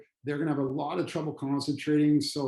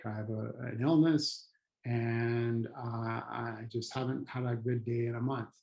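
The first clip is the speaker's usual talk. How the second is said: confiding hurt; 2 semitones lower, slower than usual. Acted. Upset customer confides in someone they trust, subdued. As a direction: open up haltingly, mildly downcast. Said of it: "They're gonna say".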